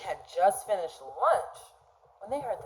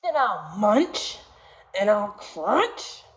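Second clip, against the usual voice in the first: mock shark roar; 3 semitones higher than usual. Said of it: "roared the shark".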